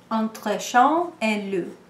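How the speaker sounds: slow French "entre chien et loup" in an English accent; carefully sounding out "entre chien et loup" in an American accent; French phrase, English accent. Shown as a demonstration. Reader quoting a French saying, slow American-accented French. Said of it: "please forgive my French accent".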